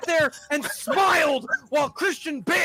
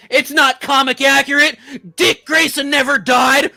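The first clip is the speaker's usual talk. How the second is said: complaining fan; 8 dB louder than usual. Retold or imitated. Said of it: "here's one I've also heard".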